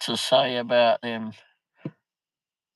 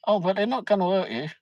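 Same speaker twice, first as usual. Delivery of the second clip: fast, high dismissive reassurance; mock reassurance; 8 semitones higher, faster than usual. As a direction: parrot the staff's calm dismissal. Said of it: "turn around and say".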